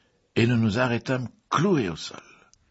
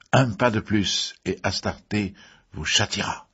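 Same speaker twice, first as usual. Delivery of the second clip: threatening command. A narrator's reading. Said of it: "cria-t-elle".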